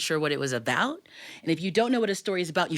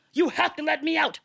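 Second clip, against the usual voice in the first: insistent tiger; 10 semitones higher than usual. Acted.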